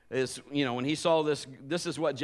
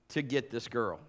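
normal talking voice

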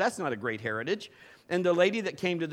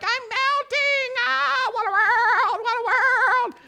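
very high, slow, shrieking witch wail; melting witch; 8 dB louder, slower than usual. Retold or imitated. Preacher mimics a melting witch, high shrieking wail. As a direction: wail like a witch dissolving into a puddle. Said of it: "It's almost like".

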